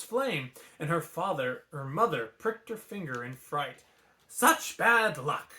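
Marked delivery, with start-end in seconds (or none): 4.3-5.5 put-on slow, higher old woman's cry of dismay; a grandmother wailing at bad omens; grandma exclaiming. A narrator's reading. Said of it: "Grandma Fa exclaimed".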